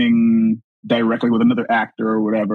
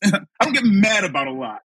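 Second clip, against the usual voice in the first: higher, projected retold warning; full voice; 6 semitones higher than usual. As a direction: say it out for the whole store to hear. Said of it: "And I'm saying full voiced".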